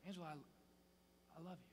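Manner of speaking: soft private words to a wife; intimate whisper. Acted. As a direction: lean in and whisper it lovingly. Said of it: "I'll just lean over to her".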